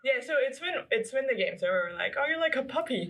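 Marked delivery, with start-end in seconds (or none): 2.2-3.1 higher, playful gushing; fond cooing. Retold or imitated. Fans fussing over the player after the game, fond cooing. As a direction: coo as if at a puppy.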